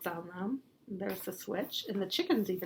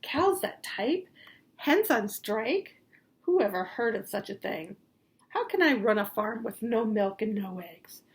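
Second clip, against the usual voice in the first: outraged farmer; 5 dB louder than usual. Acted. Farmer Brown rants about striking cows, outraged. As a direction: fume like a baffled farmer.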